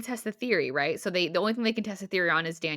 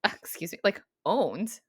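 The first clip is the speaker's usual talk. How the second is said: mock offended; slower than usual. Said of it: "it gets upset".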